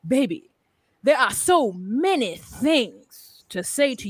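slow, rhythmic spoken-word recital; mock slam poetry, slowed and dramatic. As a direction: perform it like an open-mic poet, drawn out. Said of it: "Let me do it in slam poetry".

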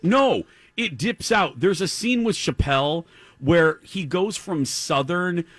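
laughing high while talking. Real, not acted. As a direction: break up laughing mid-sentence. Laughing about bad accent.

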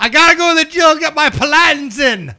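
high, loud mock gym-girl chirp; valley girl voice. Teasing a friend's mispronunciation in a mock gym-girl voice. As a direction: toss it off like a ditzy gym girl. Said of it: "that's how the Summit Hill girls do their exercises".

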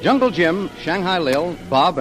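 ordinary delivery

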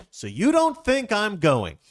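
high, loud, slow indignant question; upset disbelief. Acted. Friend learns the couple left him out of the rapture, indignant. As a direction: draw it out as a hammed-up offended friend. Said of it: "he's all upset about it".

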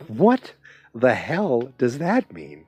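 incredulous, as if you can't believe she said it; baffled disbelief. Retold or imitated. Podcaster recalling his reaction to Betty's remark, baffled disbelief.

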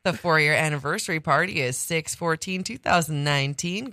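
lightly announcer-like read; BBC announcer. Real, not acted. Co-host reading out the party date, BBC announcer. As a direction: read the event notice like a BBC presenter. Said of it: "sound like somebody from B B C".

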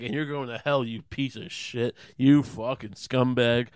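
slow, drawn-out insults; scornful condemnation. Acted. Jesus to the guy who mocked him, mock contempt. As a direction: lay each insult on deliberately. Implied curse at the other man.

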